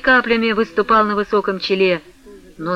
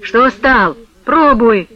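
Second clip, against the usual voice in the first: a touch of gruff pushing; mild mock urging; 3 semitones higher, 5 dB louder, slower than usual. A narrator's reading. Potap pushes hesitant Vasily, raised voice. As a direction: hurry him on with a raised voice.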